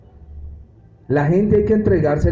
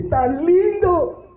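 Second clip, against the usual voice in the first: mock dreamy; 14 semitones higher, much slower than usual. Mocking someone who says it's lovely.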